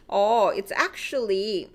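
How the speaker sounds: English with a Korean accent. Real, not acted. Teacher slips into Korean-accented English. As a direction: say it with a Korean accent, a bit slow. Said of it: "that was such Korean accent".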